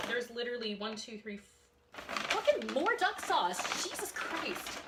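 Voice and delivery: fed up with the duck sauce; exasperated. Real, not acted. Outraged at too much sauce.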